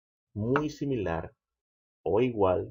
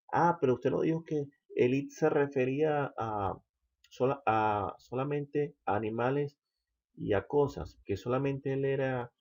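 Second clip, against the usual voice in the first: lightly voiced puzzled student, pitched higher; objecting student; 6 semitones higher than usual. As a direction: raise a mild objection as a student would. (leve voz de alumno que objeta, más aguda)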